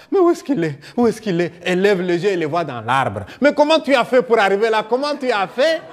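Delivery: high, startled cries of a relieved mother; surprised relief. Acted. Mother spotting her child in the tree, surprised and relieved. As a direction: call up to the tree, amazed, a laugh breaking in.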